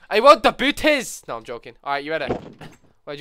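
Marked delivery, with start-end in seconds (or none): 0.1-1.2 put-on high, loud, slow childish whine; whiny shout. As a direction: wail it like a spoiled kid. Joking whiny demand.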